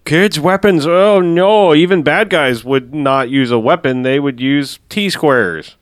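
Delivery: exaggerated horror, stretching out the last words; mock alarm. Mocking kids-movie rules about weapons, mock alarm.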